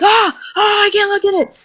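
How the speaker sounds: hammed-up horrified squeal; disgusted cry. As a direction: recoil from the sight in horror. Girl recoiling from fake vomit.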